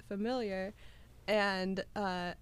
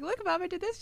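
put-on higher, eager little kid; kid showing off; 9 semitones higher, faster than usual. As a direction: show off like a child to mom. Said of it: "I'd be like".

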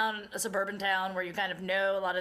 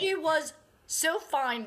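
a hint of a drawn-out reassuring doctor; slow, sing-song reassurance; mock soothing; 5 semitones higher, slower than usual. Doctor reassuring mom the baby is fine, lightly mocked.

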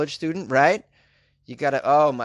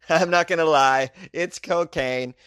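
quoted suspect; 3 semitones higher, 3 dB louder, slower than usual. Retold or imitated. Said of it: "he said".

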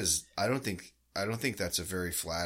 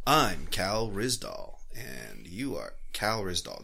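slow, calm public radio host; NPR host voice; slower than usual. Pretend. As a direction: deliver it like a soothing radio host. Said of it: "who I listen to on N P R".

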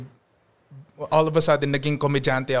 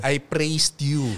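Southern Filipino accent; much slower than usual. Shown as a demonstration. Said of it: "when they speak English".

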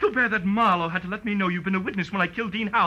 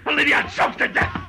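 hostage threat; 8 semitones higher than usual. Acted.

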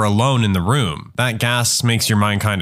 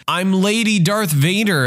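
screamed; 7 semitones higher than usual. Retold or imitated. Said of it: "I screamed".

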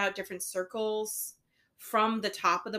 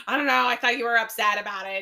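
stressed reply; 6 dB louder, faster than usual. Retold or imitated. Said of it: "then I get stressed".

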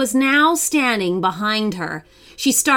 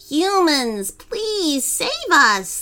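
put-on pleading young troll; 5 semitones higher than usual. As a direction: beg the humans to rescue you. Troll begs to be saved.

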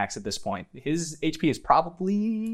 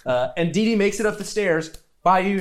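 ordinary talk

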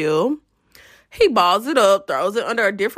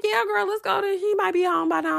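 imitating friend; 9 semitones higher than usual. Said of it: "Stacy's like".

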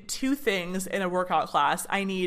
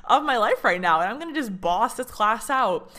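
pumped up; 3 semitones higher than usual. Retold or imitated. On a spin bike, telling herself she'll boss the class: pumped up. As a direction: hype yourself up like the main character. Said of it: "being like".

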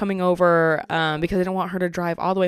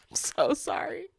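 whisper; 8 semitones higher, 7 dB quieter, slower than usual. Real, not acted. Whispered apology after name slip.

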